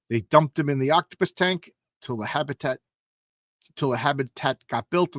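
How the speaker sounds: hard-boiled storyteller read; comic narration read aloud. Acted. Reading the comic panel's roustabout narration to viewers, storytelling. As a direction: spin it like an old circus yarn.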